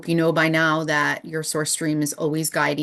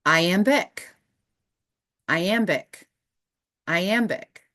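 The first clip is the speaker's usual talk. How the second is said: inner voice; 2 semitones higher, slower than usual. Retold or imitated. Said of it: "what I heard as I was woken up".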